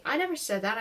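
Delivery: tearful with hiccups; hiccuping. Acted. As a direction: speak through sobbing hiccups. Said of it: "I said, hiccuping".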